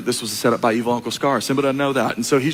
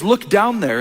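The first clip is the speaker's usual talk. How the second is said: a hint of the old sage; 6 semitones higher, slower than usual. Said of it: "And he says".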